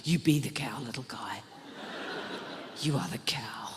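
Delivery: put-on low whispered pep talk to a kid; intense coaching whisper. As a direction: whisper it like an acting coach psyching him up. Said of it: "gave him a very brief method acting course".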